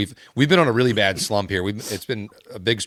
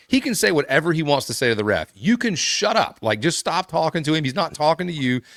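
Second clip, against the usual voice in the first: higher-pitched retold scolding, a touch heated; retold telling off; 5 semitones higher than usual. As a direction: snap back at the opposing player, but only lightly acted. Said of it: "I said".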